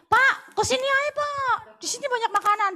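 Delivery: lightly voiced lady in the corner inviting; inviting vendor. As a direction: call him over lightly. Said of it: "Nek enciknya ngomong".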